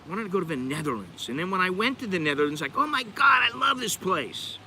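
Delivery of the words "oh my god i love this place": high-pitched, gushing recalled delight; retold excitement. Recalling first visit to the Netherlands, retold excitement. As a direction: gush it higher, stretching out the end.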